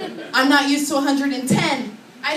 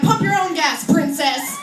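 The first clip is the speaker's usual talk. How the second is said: scolding passerby; 4 semitones higher, slower than usual. Acted. Passerby scolds her at gas station.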